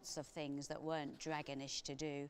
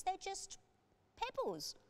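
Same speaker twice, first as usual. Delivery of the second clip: P J, exasperated; 14 semitones higher than usual. A narrator's reading.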